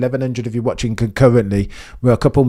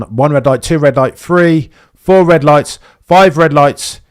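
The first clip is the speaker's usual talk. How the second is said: counting the lights louder and higher each time; rising countdown; 4 semitones higher, 7 dB louder than usual. Real, not acted. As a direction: build up on each red light.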